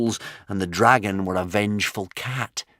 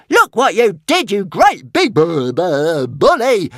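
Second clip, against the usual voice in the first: high, whiny, stammering protest; complaining little dragon; 10 semitones higher, 8 dB louder, slower than usual. A narrator's reading. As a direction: sulk at the big bully in a squeaky voice. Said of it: "complained Toothless".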